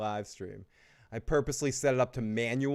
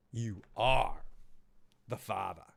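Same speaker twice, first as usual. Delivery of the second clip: Boston-accented, r-less delivery; 2 semitones lower, slower than usual. Real, not acted. Host echoing the super chat's father line, Boston accent. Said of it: "my Boston accent came out".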